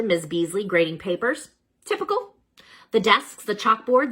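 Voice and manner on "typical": sing-song bored typical; mock-bored rising typical. A narrator's reading. Narrator mocking typical refrain.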